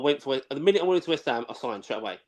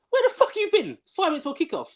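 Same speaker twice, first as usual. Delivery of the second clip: high mock outrage breaking into a laugh; angry retold yell; 13 semitones higher than usual. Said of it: "I was so angry about it".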